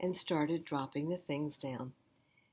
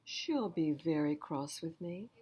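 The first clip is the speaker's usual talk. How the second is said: put-on higher child's pleading voice; child asking for help; 4 semitones higher, 3 dB louder than usual. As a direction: plead like a small kid in trouble. The speaker's plea voice.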